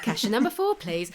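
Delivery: calling out like a till announcement; bright shop cashier call. Retold or imitated. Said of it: "That made you sound like".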